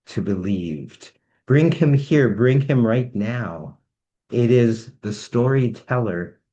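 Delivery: conjure him up like a grand announcer; summoning spell. Acted. Host conjuring the storyteller onstage, ringing rhymed spell. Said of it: "do this from this spell".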